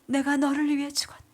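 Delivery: whispered divine words, a little firmer; solemn echo of the holy voice; breathy reverent repetition; voice of Jesus. Retold or imitated. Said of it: "이 음성이 저에게 들려지는 거예요".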